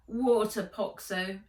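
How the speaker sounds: weak, groaning plea. Acted. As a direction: groan it out, seasick and spent. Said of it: "she groaned".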